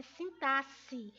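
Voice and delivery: slow sintaxe, x said as s; correct pronunciation. Shown as a demonstration. Teacher correcting a common error, sintaxe with an s sound. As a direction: say sintaxe as sin-TA-ssi. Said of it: "fosse a pronúncia de dois S".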